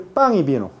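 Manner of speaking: "pan y vino" with a back-of-mouth ng in pan; velarized n. Shown as a demonstration. Teacher shows lowland Spanish to class, "pan" velarized to "pang". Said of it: "Por eso se llama la pelarización".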